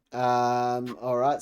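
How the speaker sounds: ordinary delivery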